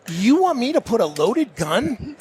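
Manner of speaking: high, slow, mock-alarmed disbelief; retold terror. Novice told to load his gun, acting out slow, alarmed disbelief. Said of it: "I was terrified".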